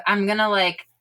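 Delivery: muffled behind hands. Real, not acted. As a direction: talk through hands over the face. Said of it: "says through her muffled, uh, hands over her face".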